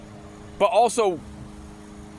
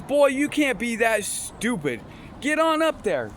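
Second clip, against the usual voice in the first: exasperated urging; 3 semitones higher, slower than usual. Retold or imitated. Friend sends the clueless comic up to perform, mock exasperation. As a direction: imitate a friend pushing someone onstage. Friend scolds him onto the stage.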